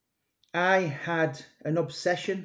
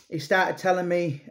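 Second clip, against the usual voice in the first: usual speaking voice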